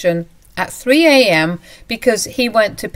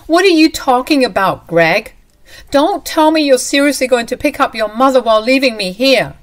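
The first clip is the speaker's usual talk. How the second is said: louder and higher, outraged; furious demand; 6 semitones higher, 7 dB louder than usual. Acted. Wife furious at husband over the phone, louder and higher. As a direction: confront him for leaving her stranded.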